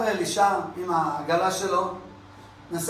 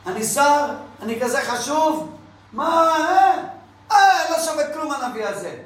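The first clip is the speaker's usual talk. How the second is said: offended outburst; 6 semitones higher than usual. Acted. Offended minister rants at prophet.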